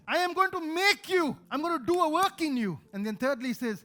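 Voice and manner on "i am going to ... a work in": emphatic preaching. Real, not acted. Preacher voicing Jesus' promise.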